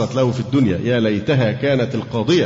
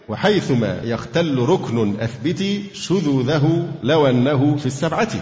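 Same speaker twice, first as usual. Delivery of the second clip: chanting teaching verses to students; poem recitation. Acted.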